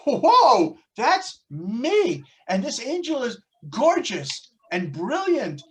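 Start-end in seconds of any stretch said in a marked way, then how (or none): 0.1-2.2 sudden awed "whoa", louder; a stunned recognition of oneself; wide-eyed wonder at a mirror image; amazed gasp. Acted. Seeing own face on angel.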